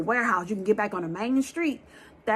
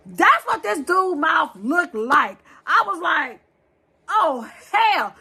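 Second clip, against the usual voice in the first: frightened exclaim; 7 semitones higher, 5 dB louder, slower than usual. Real, not acted. Scared retelling monster teeth.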